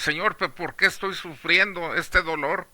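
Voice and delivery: questioning God. Acted. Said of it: "sin cuestionar a Dios".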